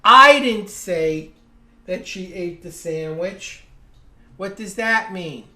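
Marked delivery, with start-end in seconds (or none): 0.0-3.6 "I" punched very loud and drawn out, then a pause; stress on I. Shown as a demonstration. Teacher showing someone else said it, stress on "I". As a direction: hit "I" hard, drop back for the rest. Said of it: "I changed the pitch of my voice".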